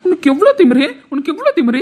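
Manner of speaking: high, loud outraged cry; outraged shout. Acted. Husband shouting at his defiant wife, outraged. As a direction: hurl it at her in disbelief.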